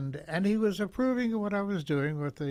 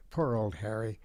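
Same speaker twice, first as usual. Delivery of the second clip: hushed pity; 3 semitones lower than usual. Real, not acted. Telling the interviewer about poor Harry, whispered. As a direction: breathe it out with sorrow.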